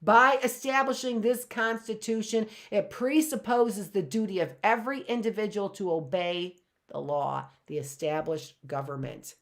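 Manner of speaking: stately reading from a historic speech; formal speech reading. Acted. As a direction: read it like a solemn founding text. Reads address excerpt.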